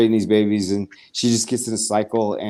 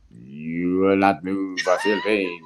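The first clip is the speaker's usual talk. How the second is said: mock alien command; 5 semitones lower, much slower than usual. Alien voice heard in story.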